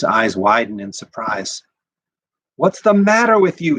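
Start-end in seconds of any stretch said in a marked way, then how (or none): 2.6-3.8 higher, louder angry yell. A narrator's reading. Mother yelling at her son after the slap. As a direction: shout it at him, shocked and furious. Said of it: "she yells at her son".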